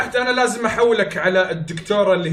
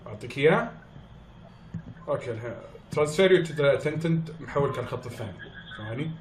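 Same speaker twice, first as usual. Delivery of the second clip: quiet; 5 semitones lower, 7 dB quieter than usual. Pretend. Fakes a quiet side phone call.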